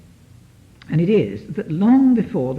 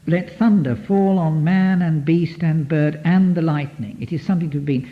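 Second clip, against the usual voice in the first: poem recital. Shown as a demonstration. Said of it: "recites the poem again".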